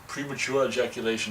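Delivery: a light put-on movie accent; a hint of a film-quote accent; Last Action Hero accent. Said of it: "said it with that accent".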